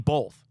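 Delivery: "both" with an L before the th. Shown as a demonstration. Host admitting he can't help it, "both" as "bolth". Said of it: "I say it both".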